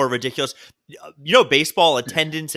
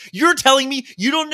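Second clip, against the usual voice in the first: much higher, incredulous outburst; mock exasperated daughter; 10 semitones higher than usual. Patient's daughter amazed he doesn't know, imitated incredulity. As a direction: imitate her disbelief. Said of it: "And she got pretty".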